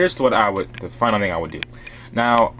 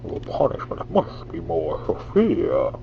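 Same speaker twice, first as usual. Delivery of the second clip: Bane; 3 semitones lower than usual. Shown as a demonstration. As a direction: practise a villain impersonation. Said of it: "still trying to get the hang of it".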